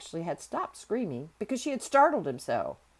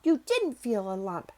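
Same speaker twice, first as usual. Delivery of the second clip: raised, angry denial; fierce contradiction; 4 semitones higher, 4 dB louder than usual. A narrator's reading. Girl contradicting hysterical boy, fierce contradiction. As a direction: cut him down, higher and firmer. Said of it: "contradicted Mary fiercely".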